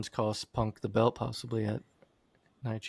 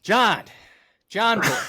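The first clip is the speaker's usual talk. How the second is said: higher and louder, a wrestler calling out; dramatic promo shout; 9 semitones higher, 8 dB louder, slower than usual. Acted. Host re-reading Punk's promo, shouted with emotion. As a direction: bellow it like a ring promo. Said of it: "the emotion that you put into reading that".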